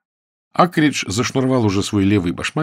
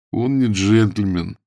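sullen; slower than usual. Acted. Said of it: "угрюмо сказал Акридж".

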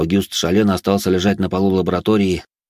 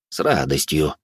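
pleased; 3 semitones lower, slower than usual. A narrator's reading. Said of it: "довольным голосом произнёс священнослужитель".

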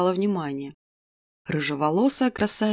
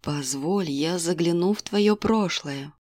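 fortune teller; 2 semitones lower, slower than usual. Acted. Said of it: "Гадалка протянула открытые ладони".

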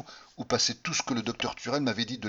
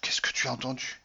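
moaning; 3 semitones higher than usual. Acted. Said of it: "gémit-elle".

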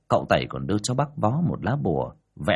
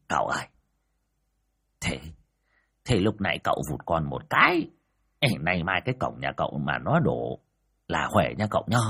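put-on mild chuckling old man; 3 semitones lower than usual. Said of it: "cười hè hè".

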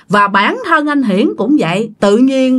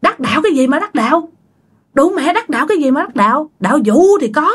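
higher-pitched, quick mock outburst; indignant cursing; 4 semitones higher, faster than usual. Hiển curses the old man who scolded him, in mock indignation. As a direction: scoff in a retold fit of temper. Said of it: "ông Hiển bắt đầu ông nổi xung thiên".

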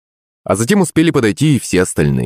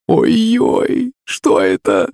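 frightened cry; much slower than usual. A narrator's reading. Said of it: "закричала от ужаса княгиня".

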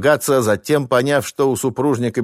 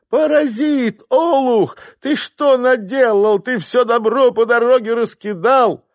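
high, loud berating, slow on the question; wife berating husband over spilled goods; angry scolding; 4 dB louder, slower than usual. Acted. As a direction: rip into the useless husband.

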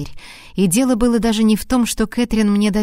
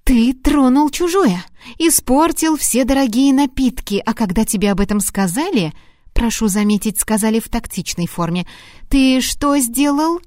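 angry reproach; 3 semitones higher than usual. Acted. Выговор Харту, второй дубль. (возмущённый выговор на повышенных тонах)

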